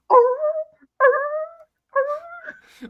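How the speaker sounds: high barking sea lion roar; sea lion impression. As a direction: bark it out like a sea lion bull. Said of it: "my world famous sea lion impression".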